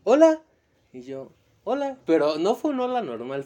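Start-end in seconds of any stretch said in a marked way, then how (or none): 0.0-0.4 put-on shy anime girl voice. Imitating shy otaku girl's greeting. 1.6-2.0 high anime-style hello. Retold or imitated. Imitating his own reply.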